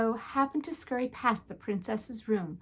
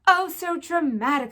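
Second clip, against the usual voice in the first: dismissive French; 6 semitones higher, 4 dB louder than usual. A narrator's reading. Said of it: "said Antoinette".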